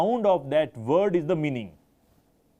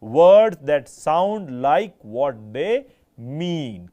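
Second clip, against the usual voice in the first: every word of Words that sound like what they mean slow and louder; slow, loud emphasis; 7 dB louder, much slower than usual. Shown as a demonstration. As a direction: hammer home the key definition. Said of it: "Very important last line". (धीमे और ज़ोर से हर शब्द पर बल)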